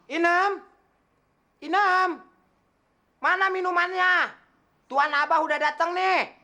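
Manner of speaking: calling the maid. Acted. Master shouts to the maid for drinks. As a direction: call out high and loud toward the kitchen.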